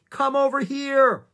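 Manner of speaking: high, loud, drawn-out call; shouted summons. A narrator's reading. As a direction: shout her over, slowly stretched. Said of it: "Annie shouted".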